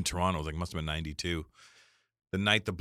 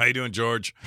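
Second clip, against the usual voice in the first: mock greeting; 5 semitones higher, 8 dB louder than usual. Teasing a stranger as Carlin.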